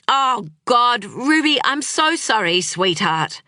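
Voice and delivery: close to tears. Acted. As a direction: apologise to the little girl, voice about to break. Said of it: "He sounded close to tears".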